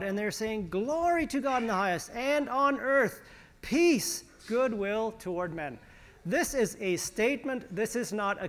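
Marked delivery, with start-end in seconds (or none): 0.7-5.8 high, exultant proclamation of praise; angels breaking forth. Acted. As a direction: proclaim it as angels bursting into praise, stretching the key words. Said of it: "all of a sudden breaking forth in glory to God".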